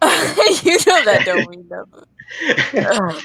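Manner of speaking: laughing repeat. Retold or imitated.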